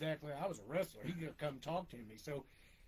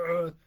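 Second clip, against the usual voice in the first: long, throaty monster growl; imitated Yeti roar; 10 dB louder than usual. Dad describes the Yeti coming out, mock roar.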